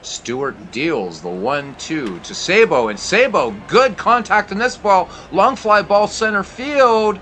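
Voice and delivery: excited sports commentator calling it; play-by-play. Acted. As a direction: call the action like a broadcaster. Calls a baseball game play-by-play.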